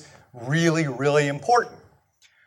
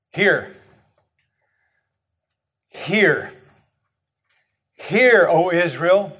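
slow, weighty scripture reading with long pauses; solemn recitation; slower than usual. Acted. Preacher to congregation, solemn slow recitation. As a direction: let each word land like a sacred call.

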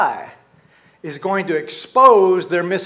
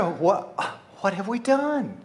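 sincere; 3 semitones higher, 4 dB quieter, slower than usual. Shown as a demonstration. The people asking God what went wrong, sincere. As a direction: ask it as an innocent, honest question. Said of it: "maybe they're just sincere".

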